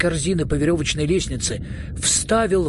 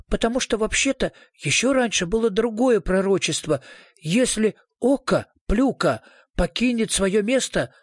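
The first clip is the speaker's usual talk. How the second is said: higher-pitched little man telling a prophecy; lightly voiced skinny prophet; thin little man; 6 semitones higher than usual. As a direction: voice a small character with an ominous warning, pitched up.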